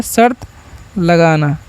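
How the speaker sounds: split drill. Shown as a demonstration. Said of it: "क्या होता है?".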